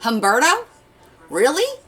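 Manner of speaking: high rising mock disbelief; teasing disbelief. Teasing the chef about his name, high and rising.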